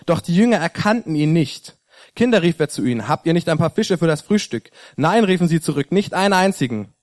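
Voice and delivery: measured Bible reading with quotes lightly voiced; lightly voiced Gospel reading, unhurried; scripture reading. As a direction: read the passage aloud to the congregation. Reads a Bible passage aloud.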